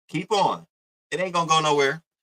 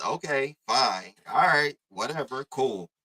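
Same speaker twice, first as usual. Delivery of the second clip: dismissive acceptance; 3 semitones lower, slower than usual. Real, not acted. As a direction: let it drop as if giving up. Dismissively concedes after the incredulous question.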